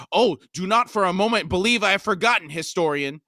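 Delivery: high, loud threatening shout; shouting threat. A narrator's reading. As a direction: hurl it at the historian. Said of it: "Nethpara shouted".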